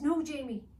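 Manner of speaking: put-on girl calling her brother back. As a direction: stop him with a call. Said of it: "Eliza called".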